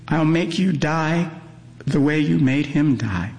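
tearful threat. A narrator's reading. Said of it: "she says between sobs".

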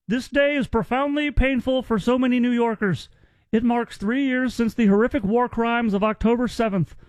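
hint of a solemn mayor reading his statement; imitating Mamdani. Radio host mocking the mayor's tweet, lightly imitated earnest voice. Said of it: "that's how he sounds".

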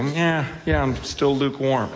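mock-casual, offhand admission; casual shrug. Preacher imitating lukewarm hearers, casual shrug. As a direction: toss it off as if it hardly matters. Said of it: "casually say you're lukewarm".

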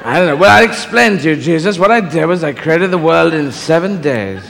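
God as a measured English actor; James Mason. Acted. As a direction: explain it grandly, drawing out the last phrase. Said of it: "are you gonna do this James Mason impression".

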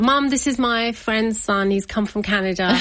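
chirpy cover story to mum; happy and chirpy. Retold or imitated. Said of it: "Like that, all very happy and chirpy".

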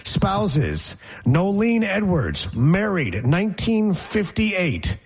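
a lightly hammed-up newscast with sponsor plug; mock news read. Reading Paul Hogan's marriages to co-host as breaking news. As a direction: read it like a radio bulletin.

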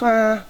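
imitated noncommittal groan. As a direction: mimic an unimpressed shrug of a sound. Imitates the guy's unimpressed answer.

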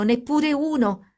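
put-on the child's disappointed cry returning, slowed and high. A narrator's reading. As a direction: draw out "neppure uno!" in a high plaintive pitch. Echo of the child's words.

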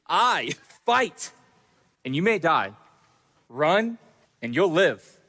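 put-on lightly rousing battle speech, no Scottish accent; rally the troops like Braveheart, understated; a hint of a war chief stirring his army; William Wallace speech. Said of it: "a good pre-battle speech".

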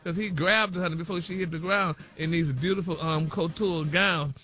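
chatty celebrity news read peppered with honey and y'all; sassy gossip news read. Acted. Radio host reading celebrity news to co-hosts, sassy gossip read.

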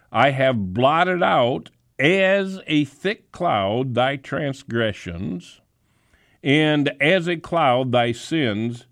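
slow, solemn King James reading; measured sermon reading; scripture reading. Acted. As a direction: read it slowly with reverence. Reads scripture.

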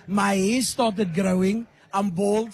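ordinary talk, nothing marked

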